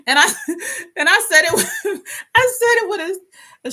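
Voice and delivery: high, laughter-broken start and restart; cracking up. Real, not acted. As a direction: try to speak while cracking up. Cracks up telling her story.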